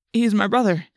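ordinary delivery, nothing marked

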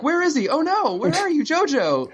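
high, frantic calling for Jojo; mock panic. Speedwagon panicking on the dock calling for Jojo, mock frantic. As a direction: play a hammed-up panicked search. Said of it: "starts running around the dock freaking out".

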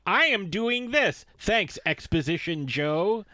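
slow sarcastic movie-speak; mock character line; mock exposition. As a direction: spell it out sarcastically. Mocking a clumsy homage.

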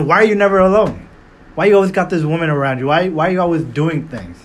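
a hint of a drunk, whiny caller pleading; a lightly voiced tipsy ex begging her to stay home; drunk crying voicemail. Imitating a rapper's drunk voicemail to her, mildly whiny. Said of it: "drunk voicemail, where he's crying".

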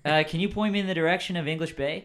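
put-on loud, stereotypical California surfer accent; SoCal surfer accent. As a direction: explain yourself as a SoCal surfer. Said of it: "I'm doing the stereotypical SoCal surfer accent".

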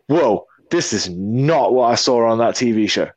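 slow, drawn-out mock shock; hammed-up slow disbelief; shocked visitor. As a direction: play a stunned tourist, taking it in slowly. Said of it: "you're gonna be all fucking shocked".

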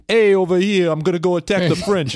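loud, high mock American soldier accent. Mocking Hollywood soldiers with a broad American accent. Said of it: "speak with extremely regionally specific American accents".

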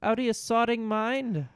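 hammed-up British insult, pitched very high; a squeaky, outraged Brit; mock British rant. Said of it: "angry British slang".

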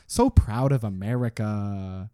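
drawn-out mock pride; mock patriotism. Citizen proud of America, slow mock patriotic fervour. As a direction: wind down the hammed-up patriotism, slowly. Mocking July fourth patriotism.

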